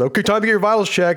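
cheery voice, high, fast and bright.

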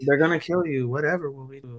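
put-on dry sarcastic voice. Joining in quoting Alexia from the show: imitating Alexia's dry sarcasm. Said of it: "so dry and sarcastic the whole time".

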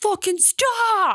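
acted, very high-pitched, furious angry scream. Retelling a parent who screamed to stop: imitating dad screaming. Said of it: "screaming at me in the parking lot".

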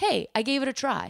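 ordinary delivery

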